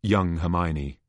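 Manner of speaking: usual speaking voice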